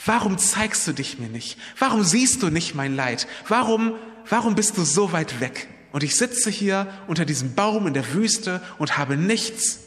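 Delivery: a desperate man pleading up to heaven; crying out to God. Retold or imitated. Nathanael under the fig tree cries out to God in despair. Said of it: "hat Gott angeschrien und gesagt".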